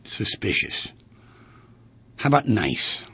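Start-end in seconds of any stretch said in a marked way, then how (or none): 0.1-0.9 whispered aside, breathy and secretive; hushed knowing whisper; conspiratorial whisper. Acted. Punchline aside on too quiet.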